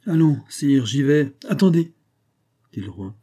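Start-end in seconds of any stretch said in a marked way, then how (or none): 0.1-1.3 higher, energetic announcement; resolute readiness. A narrator's reading. Musketeer sets off decisively. 1.5-1.9 high, loud interruption; urgent call. A narrator's reading. King abruptly stops musketeer.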